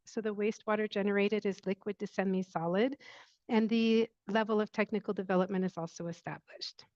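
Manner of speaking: faint and hard to hear; low volume, voice fading out; barely audible. Real, not acted. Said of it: "your voice is very low".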